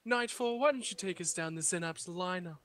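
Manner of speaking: lightly put-on British intro; a hint of a posh announcer; mock British host. Introducing Nightfall, in a light mock British accent. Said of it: "Your British accent".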